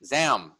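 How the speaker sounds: "zam" said alone as the accented middle of example; "zam" as a single stressed beat; stressed syllable alone. Shown as a demonstration. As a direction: isolate "zam" as one firm syllable. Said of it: "the middle syllable is, is accented".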